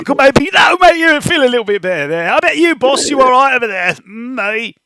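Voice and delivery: loud, high Cockney goblin voice; chirpy goblin sucking up to the boss; loud, high goblin pleading for a rest. Acted. Goblin character talking to boss.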